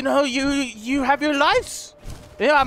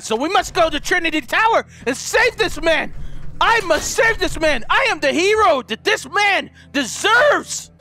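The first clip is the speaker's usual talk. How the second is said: rising, grandiose hero proclamation; mock heroic boast; 4 semitones higher than usual. Gamer hamming up a heroic vow to rescue Rex. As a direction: puff up like a self-declared savior.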